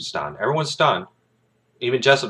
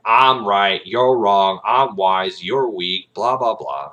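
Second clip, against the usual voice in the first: full-on arrogance; 6 dB louder, slower than usual. Retold or imitated. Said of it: "I'm talking full on".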